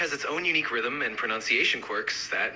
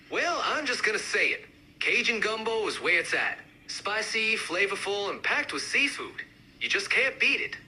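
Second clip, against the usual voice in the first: higher, more pronounced Cajun accent; amped-up Cajun accent; 4 semitones higher than usual. Shown as a demonstration. Gumbo fan speaking up, amped-up Cajun accent. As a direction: push the Cajun sound. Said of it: "really amp up the accents".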